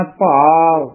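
ਭਾਵ with long aa closing to short u; closed-mouth ending. Shown as a demonstration. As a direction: close the lips on the end of ਭਾਵ. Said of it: "ਬੰਦ ਮੂੰਹ ਵਾਲੇ ਊੜੇ ਦਾ ਉਚਾਰਨ".

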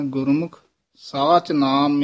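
ਗੁਰਮੁਖ, then a short stop before ਸਾਚ ਨਾਮ; pause after ਗੁਰਮੁਖ. Shown as a demonstration. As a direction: rest briefly on ਗੁਰਮੁਖ. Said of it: "ਗੁਰਮੁਖ ਪਦ ਤੇ ਵਿਸਰਾਮ ਹੈ". (ਗੁਰਮੁਖ ਤੇ ਠਹਿਰਾਅ)

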